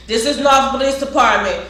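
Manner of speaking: mock police announcement, ending loud; police call-out. Acts police calling out in lockdown.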